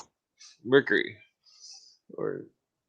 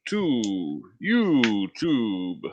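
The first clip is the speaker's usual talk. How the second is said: very slow, stretched-out welcome; drawn-out greeting; much slower than usual. Acted. Host opens a YouTube stream, drawn-out greeting. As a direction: draw every word way out.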